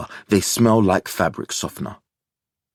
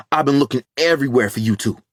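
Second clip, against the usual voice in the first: breathless hurry; 6 semitones higher, much faster than usual. A narrator's reading. Frantic search, found them.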